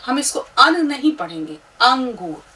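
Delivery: अंगूर with the nasal अं, not अन; explaining how to read the letter नून; nasal ang sound. Shown as a demonstration. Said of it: "अंग की बिंदी की आवाज़ निकालेगा".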